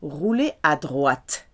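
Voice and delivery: droite with a crisp, clearly released final T. Shown as a demonstration. Teacher modelling for learners, droite with a crisp final T. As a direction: land the T at the end of droite cleanly. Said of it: "Nice clear T".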